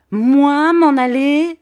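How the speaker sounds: high, loud, slow indignant shout; Bobby's indignant outcry at the bergère. A narrator's reading. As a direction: bellow it back, offended and ready to fight. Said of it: "S'écria Bobby".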